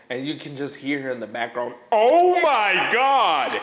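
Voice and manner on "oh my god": slow, loud, exasperated shout; exasperated yell. Retold or imitated. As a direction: groan it out, fed up. Mom yelling in background.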